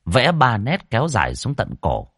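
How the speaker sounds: ordinary delivery, nothing marked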